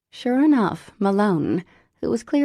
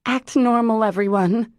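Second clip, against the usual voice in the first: loud, high urgent instruction; urgent stage whisper tone; 5 semitones higher, 5 dB louder than usual. A narrator's reading. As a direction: urge everyone to play it cool. Woman hushing diner crowd.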